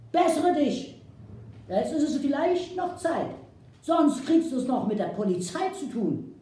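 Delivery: loud, high, scolding Saxon-tinged woman; angry scolding woman. Acted. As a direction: give the chief a furious dressing-down. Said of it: "fuhr ihn zornig an".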